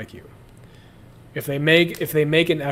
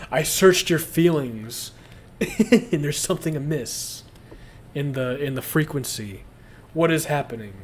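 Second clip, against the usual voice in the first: mock soft-spoken empath. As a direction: parody a friend who reads feelings. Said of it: "You talk like a girl sometimes".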